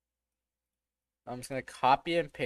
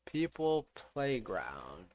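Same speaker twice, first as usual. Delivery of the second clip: slow breathy whisper; 3 semitones lower, 6 dB quieter, much slower than usual. Real, not acted. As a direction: whisper it slowly to yourself. Repeating game name softly.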